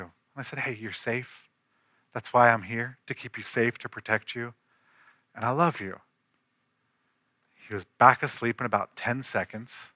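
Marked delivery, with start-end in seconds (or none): 0.6-6.0 softer, calm reassurance; reassuring. Retold or imitated. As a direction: soothe a frightened child back to sleep. Father soothes scared son.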